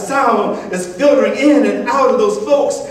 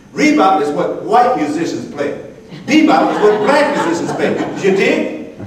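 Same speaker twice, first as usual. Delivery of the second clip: laughing explanation. Acted.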